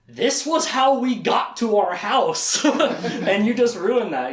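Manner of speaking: slow, laughing through a mock scolding; laughing mock anger. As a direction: scold them while cracking up. Retelling angry Verna's quote.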